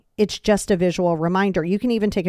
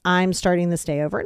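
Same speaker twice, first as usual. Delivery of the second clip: calm affirmation; 2 semitones lower than usual. Retold or imitated. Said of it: "every morning to say".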